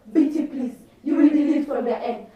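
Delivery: soft, understated pleading; lightly voiced boy coaxing softly; coaxing suitor. Plays boy coaxing her once more.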